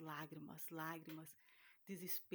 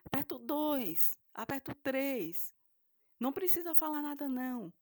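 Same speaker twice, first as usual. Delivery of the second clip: firm instructions; 7 semitones higher, 9 dB louder than usual. Retold or imitated. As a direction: instruct him step by step, firmly. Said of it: "Aí eu falei". (instruções firmes e pausadas)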